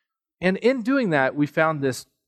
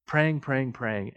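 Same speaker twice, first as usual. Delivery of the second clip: fading repetition; 5 dB quieter, much slower than usual. Acted. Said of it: "repeating praying fading out".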